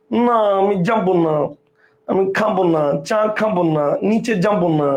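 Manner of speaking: imitating a friend talking through the nose; Eva's nasal refusal. Friend refusing to go down for tea, nasal imitation. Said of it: "নাক দিয়ে উচ্চারণ করছে".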